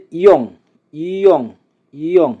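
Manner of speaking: ইয়ং as a separate model word, ending in ng; pronunciation drill. Shown as a demonstration. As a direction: repeat ইয়ং for learners, one at a time. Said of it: "আমরা আবার একসাথে উচ্চারণ করি". (ইয়ং আলাদা করে স্পষ্ট উচ্চারণ)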